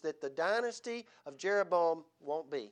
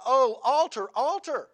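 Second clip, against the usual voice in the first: loud prophetic cry, pitch up; 7 semitones higher, 9 dB louder, slower than usual. Retold or imitated. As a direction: call out to the altar like a prophet. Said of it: "He cried against the altar".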